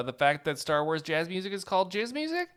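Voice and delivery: ordinary talk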